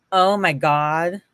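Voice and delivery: slow lightly voiced Valley Girl. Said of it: "like, a Valley Girl voice coming from her".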